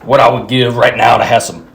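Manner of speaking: low, wistful monologue voice; movie character impression. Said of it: "he starts talking about what it was like back home".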